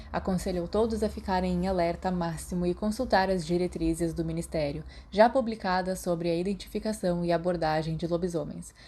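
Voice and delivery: crisp newsreader delivery; news report read. Acted. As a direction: read it like a radio bulletin. Reads news article aloud.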